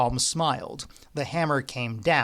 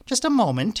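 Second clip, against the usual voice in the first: spluttered; 7 semitones higher, 4 dB louder than usual. A narrator's reading. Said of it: "he spluttered".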